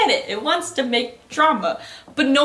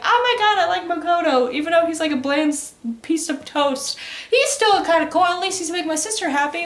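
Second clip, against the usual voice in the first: higher, bright gushing schoolgirl voice; gushing girl; 6 semitones higher than usual. Retold or imitated. Little sister gushing over Makoto, higher girly voice. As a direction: gush like a smitten kid sister.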